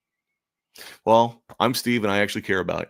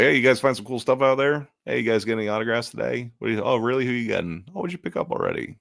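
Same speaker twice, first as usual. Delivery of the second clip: bright, higher friendly vendor patter; upbeat chatty greeting; 5 semitones higher than usual. Retold or imitated. Vendor chatting up shoppers about their finds, upbeat. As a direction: draw the visitor into chat, eager. Engaging booth visitors late show.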